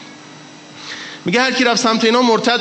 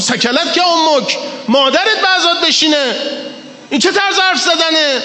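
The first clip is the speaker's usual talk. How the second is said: retold rebuke; 7 semitones higher than usual. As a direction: snap it out as a stern rebuke. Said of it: "سرش داد زد".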